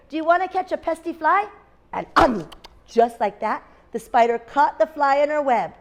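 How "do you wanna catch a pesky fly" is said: high, quick question; lightly voiced rooster with raised pitch; storybook rooster. A narrator's reading. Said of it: "said the rooster".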